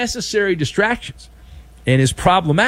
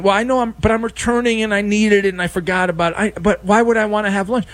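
acted argument; 4 semitones higher, faster than usual. Acts out argument over returned lawnmower.

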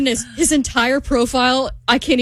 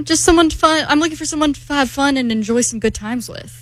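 higher-pitched mock French accent; 5 semitones higher than usual. Woman reading out what her French match is looking for, French accent. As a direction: keep up the put-on French voice. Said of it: "I'm doing that accent".

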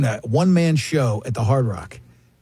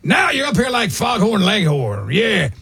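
big blustering Pacino; shouting Pacino; 5 semitones higher, slower than usual. Retold or imitated.

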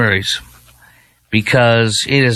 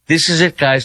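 mock excited Democrat; 4 semitones higher than usual. Mimics Democrats hyping candidate.

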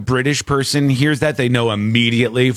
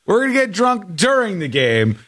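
higher, lightly voiced British fan imitation; imitating the fan; 3 semitones higher than usual. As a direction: parrot the drunk plan like the fan. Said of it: "That's what he said".

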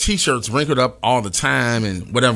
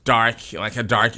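put-on white girl with halting likes; 2 semitones lower than usual. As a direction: play a fussy white girl, hesitating over each word. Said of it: "your white girl voice sounds very spot on".

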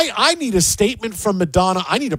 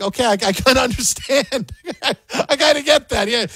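laughing; 4 semitones higher than usual. Retold or imitated. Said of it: "I'm like".

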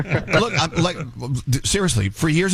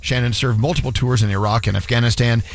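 measured, scripted radio sponsor read; solemn charity spot, evenly delivered; 2 semitones lower than usual. Real, not acted. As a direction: read it as a tribute announcement. Reads a charity ad.

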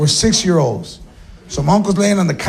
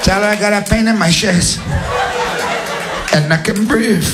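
lightly acted chest-pain voice; stricken uncle. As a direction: gasp out the message, hammed up slightly. Uncle having a heart attack.

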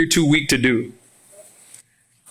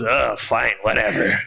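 bored indifferent god; 8 semitones lower than usual. Retold or imitated. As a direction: shrug it off like a couch potato. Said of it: "he's sitting on the couch".

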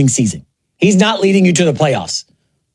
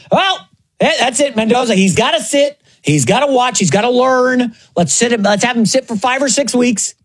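higher-pitched mimicry of fretting pundits; mocked media sheep; 5 semitones higher than usual. Host parodying the media calling to bench Mendoza, mock pundit voice. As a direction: imitate the media in a higher mocking voice. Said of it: "the media, you know, the, the sheep out there".

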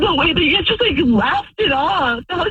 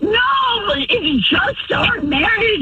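crying shout; 6 semitones higher, much slower than usual. Real, not acted. Wife crying out at her cheating husband on the phone. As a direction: break into a hurt, crying shout.

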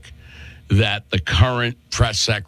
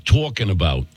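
put-on Three Stooges Brooklyn accent; 2 semitones lower than usual. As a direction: echo in a thick Brooklyn accent. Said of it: "That is how the Stooges would say it".

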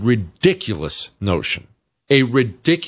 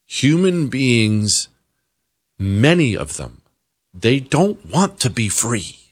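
ordinary talk

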